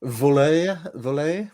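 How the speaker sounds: "Volaille" tried out with a rising, questioning French accent; attempted French accent. Shown as a demonstration. Host puzzling over a French menu word, halting French accent. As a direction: sound out the French word, unsure of it. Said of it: "my French accent is gonna be suffering".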